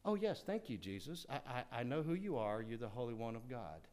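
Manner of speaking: soft, meek, mock-polite answer; mock polite demon. A pretend demon politely answering Jesus in class, soft and meek. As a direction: play the demon as a timid student. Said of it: "It didn't happen like that".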